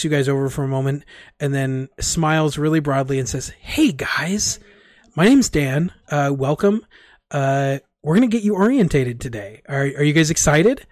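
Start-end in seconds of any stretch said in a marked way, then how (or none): 3.6-10.9 upbeat coach Dan. Acted. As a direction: pitch it like a peppy coach selling fun.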